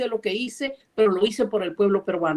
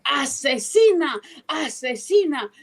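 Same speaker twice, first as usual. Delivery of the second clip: slow accusation; 3 semitones higher, slower than usual. Retold or imitated. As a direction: say Asesina slowly and steadily. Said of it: "le digo".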